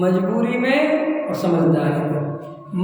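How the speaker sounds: slow, questioning repeat ending on a rise; slow repeat with rising tune. Shown as a demonstration. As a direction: repeat the two words slowly, lifting at the end. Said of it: "इसके अर्थ करो".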